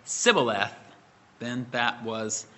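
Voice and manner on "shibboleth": S said for SH in "Sibboleth". Shown as a demonstration. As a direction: say "Sibboleth" with a plain s, no sh. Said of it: "if the man said".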